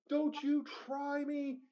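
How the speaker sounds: high, slow retold yell; mock scream. Intruder running into the house, high mock scream. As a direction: shout the threat like a madman bursting in.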